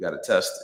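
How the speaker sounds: mock emotionless, flat, matter-of-fact deadpan delivery. Retelling a friend's reply about testing ideas: imitating a deadpan friend. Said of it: "With no emotion on his face".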